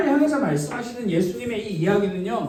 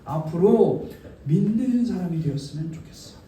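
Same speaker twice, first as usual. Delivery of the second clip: lower-pitched gentle encouragement; encouraging; 4 semitones lower than usual. Acted. Jesus encouraging Thomas to believe, gently. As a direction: wish it kindly for the listener. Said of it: "격려해 주시는 거예요".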